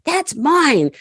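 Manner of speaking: put-on high little old lady voice, claiming it; imitating a grabby old woman; mock klepto lady. Neighbour snatching the purse, high old lady voice. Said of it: "She goes".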